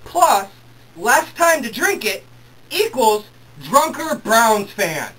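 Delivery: slow and loud, each term punched; exasperated. Real, not acted. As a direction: hammer out the sum in outrage. Spelling out the drunk math in outrage.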